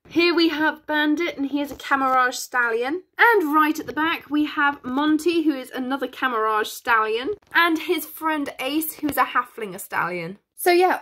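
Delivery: usual speaking voice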